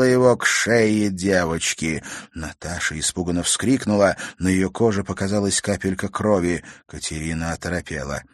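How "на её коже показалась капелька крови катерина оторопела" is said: ordinary delivery, nothing marked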